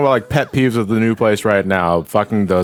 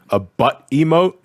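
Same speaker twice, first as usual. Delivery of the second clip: disbelief; 5 semitones higher, slower than usual. Real, not acted. Incredulous echo of the question.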